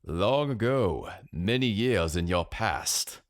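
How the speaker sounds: slow, lightly imitated German stranger; mock time traveler. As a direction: draw it out like a mysterious traveler. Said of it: "and he said".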